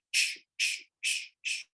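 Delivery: whispered swishing noise; broom swish. Retold or imitated. Silent girl bringing the broom, imitated swish. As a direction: hiss it like a broom sweeping. Child mimes broom sweeping.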